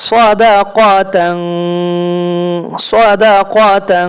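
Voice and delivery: সদাকাতাং with the final tan hidden as a nasal, slowly; ikhfa demo. Shown as a demonstration. Teacher models ikhfa nasalisation for students, slow and deliberate. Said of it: "এই জন্য ইখফা করে পড়তে হবে".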